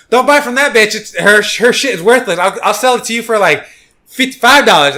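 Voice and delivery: high, loud hawker yell; mock vendor shouting. Vendor shouting at a tourist to undercut a rival, loud mock yell. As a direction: yell it like a pushy street vendor.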